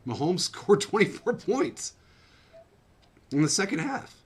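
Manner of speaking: telling the wife how Mahomes won the game; laughing excitement. Retold or imitated. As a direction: relive the thrill, laughing as you go. Retelling his reply about the win.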